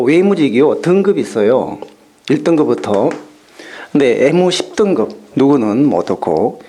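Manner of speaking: imitating an official's report with w glides dropped, "egyo" for "oegyo"; deadpan mock report, saying 애교 and 애무 with plain "e"; retold briefing in lightly imitated Jeolla pronunciation. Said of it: "전라도 출신 외교통상부 총무과장이 있었대요".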